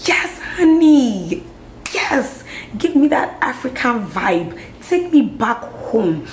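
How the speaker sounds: high, drawn-out gushing praise; delighted cheering. Retold or imitated. Reacting to Lupita's updo at the Met Gala, delighted cheering.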